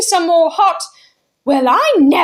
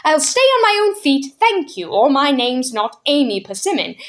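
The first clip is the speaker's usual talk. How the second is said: haughty retort; 3 semitones higher than usual. Acted. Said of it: "she retorted".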